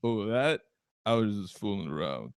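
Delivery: low, slow, slurred boxer impression; Rocky. Johnny Ringo backing down to Doc Holliday, as Rocky. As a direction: back down in a thick, sluggish fighter's mumble. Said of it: "We're both rock".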